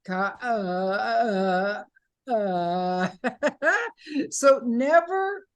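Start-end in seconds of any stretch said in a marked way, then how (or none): 0.1-3.1 "ka" breaking up into short weak "uh"s; faltering beginner demo. Shown as a demonstration. Coach mimicking when she started, faltering tone. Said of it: "when I started, I was like". 3.1-4.2 short high laugh. Real, not acted. Coach amused by her beginner impression, laughing. Laughs after own faltering demo.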